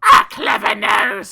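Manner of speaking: slow, loud, mocking echo; mocking mother. A narrator's reading. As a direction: throw the words back with scorn. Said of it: "his mother hissed".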